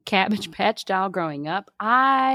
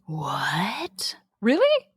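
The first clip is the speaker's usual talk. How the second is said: surprised; much slower than usual. Real, not acted. Shocked at fifty bucks.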